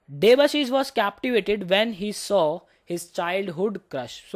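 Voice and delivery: very slow, word by word; slow dictation. Shown as a demonstration. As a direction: dictate it slowly to the class. Teacher dictates example sentence.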